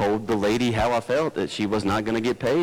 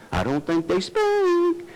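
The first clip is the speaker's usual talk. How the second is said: very high, slow, catty voice; mock gossip; slower than usual. Churchgoers gossiping about another family's kids, high and catty. Gossip mocking other parents.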